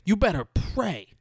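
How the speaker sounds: high, building to a shouted threat; hammed-up rage that climbs to a scream; retold screaming threat. Ben Foster screaming threats at Johnny down the phone. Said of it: "He's just screaming".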